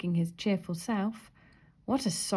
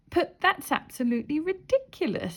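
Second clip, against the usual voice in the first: indignant; 8 semitones higher than usual. A narrator's reading. Indignant Miss Giggles.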